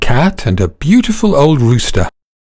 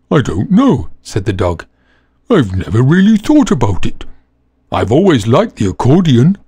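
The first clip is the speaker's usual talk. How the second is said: put-on shy old dog. Dog telling donkey what he'd play, hesitant. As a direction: think it over shyly.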